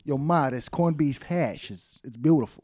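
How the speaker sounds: mild mock East Coast accent; lightly voiced East Coast Italian son; East Coast son praising Ma.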